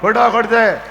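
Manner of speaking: loud, climactic sermon delivery; preaching at full force. Acted. Preacher exhorts the congregation, loud and climactic. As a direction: drive it home to the crowd.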